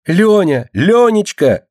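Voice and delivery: very high, delighted squeal of a name; joyful cry. A narrator's reading. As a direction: cry out with joy. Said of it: "радостно вскрикнула Мышка". (радостный высокий вскрик)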